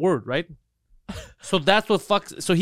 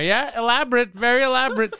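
friend's voice; 7 semitones higher than usual. Retold or imitated. Friend voiced misusing word.

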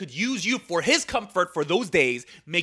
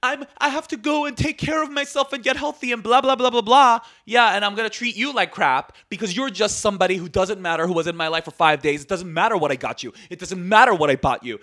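mocking the ex. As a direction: parody his self-absorbed excuses.

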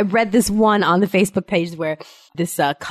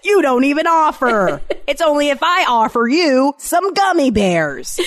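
higher, indignant mock telling-off; mock scolding; 5 semitones higher than usual. Parent complaining child never offers to help, mock scolding. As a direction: scold with comic exasperation.

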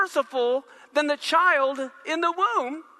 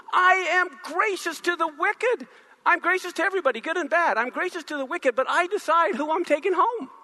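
raised, slowed and emphatic; God declaring; 5 semitones higher than usual. Acted. God telling the congregation he chooses, raised and firm. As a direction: proclaim it firmly from above. Preacher voicing God's declaration.

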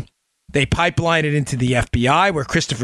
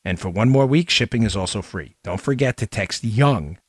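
infomercial. Acted. Sponsor read.

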